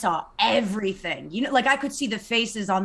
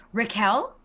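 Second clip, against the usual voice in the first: annoyed name call. Retold or imitated. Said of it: "She said my name like that".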